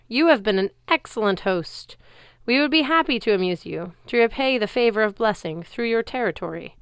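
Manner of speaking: loud courtly speech. Acted. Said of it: "loud enough for the crowd to hear".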